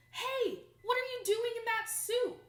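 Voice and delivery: high, loud indignant police shout; shouting policeman. Acted. Policeman shouting at Annette on the beach, indignant. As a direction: yell at her like an outraged cop. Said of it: "asked a policeman".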